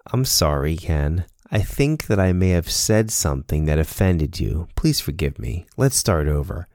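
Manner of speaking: mean every word of sorry; sincere apology. Shown as a demonstration. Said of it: "Change ... to".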